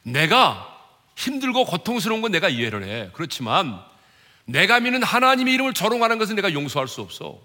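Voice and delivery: acted outrage, rising to a loud, high finish; indignant refusal. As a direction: build to an unforgiving protest. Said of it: "그들을 비난하고 조롱했습니까?".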